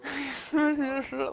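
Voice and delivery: amused chuckle; soft laugh at a student's antics. Real, not acted. Teacher amused by a yawning student, laughing.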